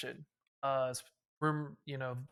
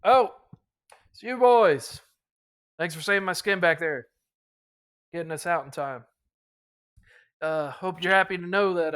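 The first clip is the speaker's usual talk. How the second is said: a louder, higher, hearty captain thanking the squad; grateful captain; 3 semitones higher, 7 dB louder than usual. Acted. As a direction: boom out the captain's thanks to his rescuers, lightly voiced. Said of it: "the captain walks up and goes".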